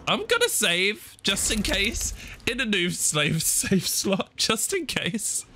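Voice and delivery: high-pitched, jittery sing-song; nervous high voice. Real, not acted. Gamer saving just in case, high nervous voice.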